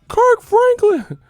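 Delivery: high, loud hype-man yell, stretched out; drawn-out mock DJ ad-lib yell; a famous DJ's shout. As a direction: bellow it like a club hype man.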